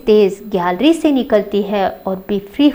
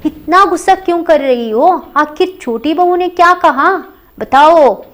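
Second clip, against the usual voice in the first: higher, a lightly voiced elder sister-in-law pressing for an answer; pressing question; 4 semitones higher than usual. Teacher voicing elder daughter-in-law urging Indu to explain, pressing. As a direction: urge her to tell, gently but firmly. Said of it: "फिर बड़ी बहू पूछ रही है".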